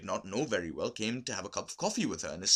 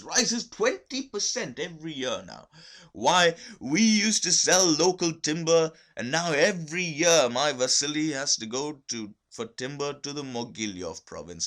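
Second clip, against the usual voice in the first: eager business talk; 6 semitones higher, 7 dB louder than usual. A narrator's reading. Olga talks business eagerly.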